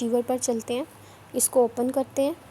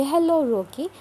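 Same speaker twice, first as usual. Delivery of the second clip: higher, brighter happy greeting; with happiness; 4 semitones higher, 3 dB louder, slower than usual. Shown as a demonstration. Teacher demonstrating the happy emotional take to recorders. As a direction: greet Rocky as if delighted to see him. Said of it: "happiness में आ रहा है".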